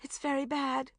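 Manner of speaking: zombie-like voice. Acted. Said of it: "in a zombie-like voice".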